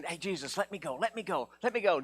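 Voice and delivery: mock whiny pleading, let me go; healed man begs Jesus to take him along, whiny; begging follower.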